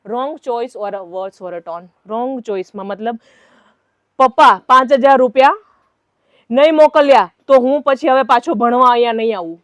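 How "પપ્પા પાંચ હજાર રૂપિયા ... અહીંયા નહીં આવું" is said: loud, rapid ultimatum to a parent; mock a student's pushy, threatening tone; threatening demand. Student pressuring father for money, loud mock threat. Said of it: "You have not right to threaten your parents".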